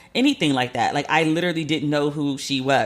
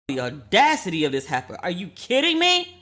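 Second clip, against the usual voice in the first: outraged disbelief. Retold or imitated. Outraged at the email.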